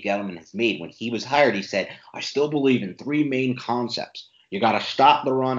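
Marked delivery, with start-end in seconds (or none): 2.1-5.6 put-on half-hearted Boston accent, pitched up; attempted Boston accent. Podcast host quoting the team's GM, attempted Boston accent. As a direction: have a poor go at a Boston accent. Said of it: "I can't do a Gettleman accent".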